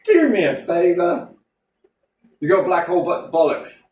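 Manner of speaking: exasperated outburst. Real, not acted. Ranting about the budget.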